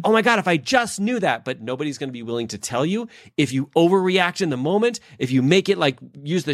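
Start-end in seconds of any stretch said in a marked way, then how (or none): 0.0-1.4 imitated regret. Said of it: "You'd have been like".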